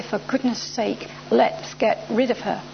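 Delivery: slow, spaced-out exasperation; softly drawn-out plea; weary dismissal. Retold or imitated. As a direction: say it slowly, wishing someone gone. Imagining the official's weary words.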